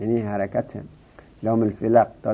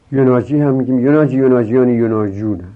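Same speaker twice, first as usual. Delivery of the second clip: forms called out louder; یناجی، یناجیان، یناجونه chanted louder; reciting forms; 3 semitones higher, 7 dB louder than usual. Shown as a demonstration. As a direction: drill the three forms for the class. Teacher reciting the paradigm.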